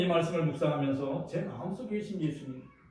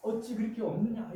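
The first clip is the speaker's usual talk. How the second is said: Jesus chiding the disciples, raised voice; rebuking; 5 semitones higher than usual. Retold or imitated. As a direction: press them on their faith. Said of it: "이렇게 책망하셨어요".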